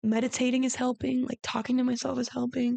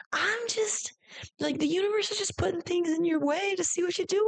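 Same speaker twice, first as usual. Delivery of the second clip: much higher voice, like a sassy best friend; sassy intuition voice; 7 semitones higher than usual. Retold or imitated. Her intuition hyping her up, much higher and sassy. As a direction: egg yourself on like a girlfriend who knows better. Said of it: "that's the energy of my intuition".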